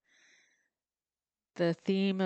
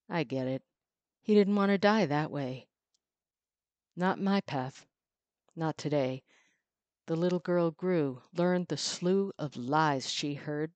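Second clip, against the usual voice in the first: measured, expressive poetry recital; poem reading. Acted. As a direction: read it like a spoken-word poem. Reads her own poem.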